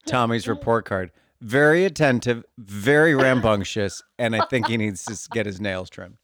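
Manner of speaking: a hint of a prim teacher reading a report card; prim teacher giving a report. Teacher to parent, reading report card, primly.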